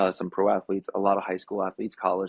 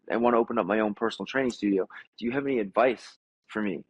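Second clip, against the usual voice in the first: put-on puppy-eager young trainer. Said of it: "the puppy in my voice".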